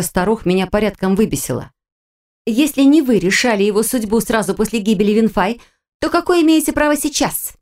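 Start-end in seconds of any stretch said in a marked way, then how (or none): 2.5-7.5 tense, rising indignant challenge; through gritted teeth. Acted. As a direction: force it out through clenched teeth. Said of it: "выдохнула я сквозь зубы".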